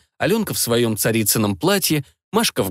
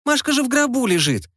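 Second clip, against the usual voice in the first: put-on indignant girl; 13 semitones higher than usual. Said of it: "искренне возмутилась Настя".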